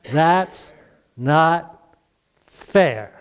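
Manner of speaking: a light hint of a sulky kid, drawn out with a pause before fair; mock whine of a child, pitch dropping on fair; childish protest. Child complaining to parents about a sibling, lightly imitated sulky whine. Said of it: "What is your response in that situation?".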